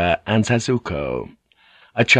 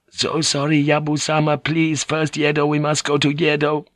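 higher, polite lady's voice with broken English; a Japanese noblewoman pleading gently; Kiri, polite Japanese lady; 6 semitones higher than usual. A narrator's reading.

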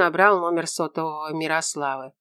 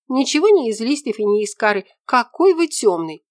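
put-on higher, louder girl's voice, slowing on the reproach; exasperated young woman; 6 semitones higher, 6 dB louder than usual. A narrator's reading. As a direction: scold him for being so dim. Ella scolds the investigator.

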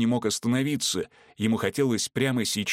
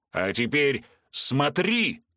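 slow, higher yell; 5 semitones higher, slower than usual. Acted. Vorski yelling at bound Veronika, slow higher yell. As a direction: roar the command slowly. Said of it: "заорал он".

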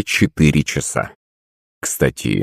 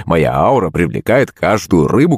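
ordinary delivery, nothing marked

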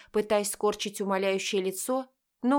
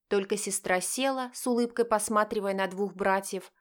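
usual speaking voice

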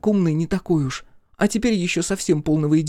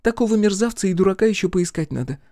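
high-pitched indignant tirade; exclaiming; 10 semitones higher than usual. A narrator's reading. Girl condemns the dead villain, exclaiming. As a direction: argue it high and insistently. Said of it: "воскликнула Олли".

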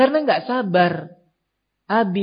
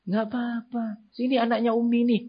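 higher, soft comforting voice; soothing mother; 7 semitones higher, 5 dB quieter than usual. Acted. Mother calling her hurt child over, soothing. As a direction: coax the child gently. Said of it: "Coba si abi dan ummi tenang".

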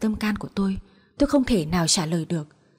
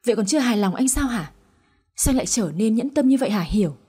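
wife's outburst; 2 semitones higher than usual. Acted. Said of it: "Tôi đã hét lên".

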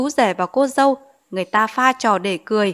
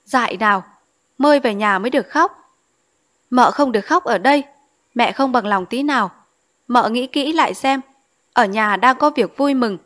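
flustered scolding; 2 semitones higher than usual. Acted. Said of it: "trợn mắt cuống quýt nói".

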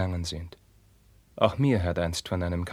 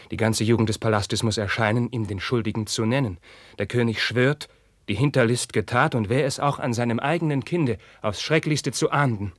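rising anger; 3 semitones higher, 4 dB louder than usual. Acted. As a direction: swell into the king's threat. Carlos retells the king's rage.

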